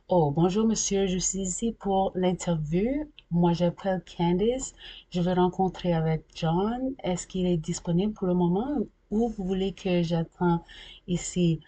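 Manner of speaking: careful, evenly paced learner-style French; French in an unaccepted accent. Shown as a demonstration. Arriving for an interview in Ottawa, careful accented French. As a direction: speak tidy French as a polite job applicant. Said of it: "speak French with a particular accent".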